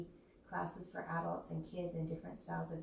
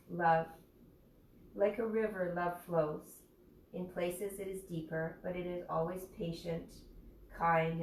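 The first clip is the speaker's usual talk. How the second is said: intention reading; 3 dB louder than usual. Acted. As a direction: recite each phrase deliberately, with pauses between. Reads out words of intention.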